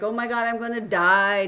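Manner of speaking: mock dramatic howl. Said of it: "huskies, they're all the time howling".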